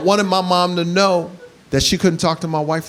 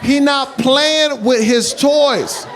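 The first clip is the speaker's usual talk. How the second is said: exasperated shout; 5 semitones higher, much slower than usual. Acted.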